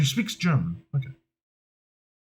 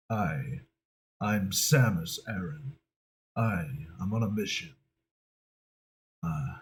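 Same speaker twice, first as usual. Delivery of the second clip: low, quiet lone bounty hunter; underplay a loner on a mission, low and soft; Samus Aran; 8 semitones lower, 6 dB quieter than usual. Acted. Improvising as a space bounty hunter, low quiet loner. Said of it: "kind of an on alone character".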